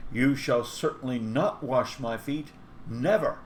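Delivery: a touch of indignant protest, rising on "never"; mild indignation. Acted. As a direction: push back, a little shocked. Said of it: "he puts the force of his indignation into his exclamation".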